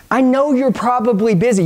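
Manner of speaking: "I know you're probably busy" said deliberately; unhurried, step-by-step demonstration; measured script line. Shown as a demonstration. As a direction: take your time over the line. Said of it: "Follow me".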